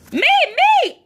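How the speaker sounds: high excited squeal; eager child character. Acted. Becca volunteers as detective.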